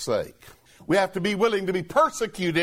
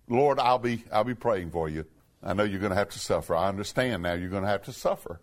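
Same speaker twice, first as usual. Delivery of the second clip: humbled Peter; 9 semitones lower, 4 dB quieter than usual. Retold or imitated. Peter voiced humbly to Jesus.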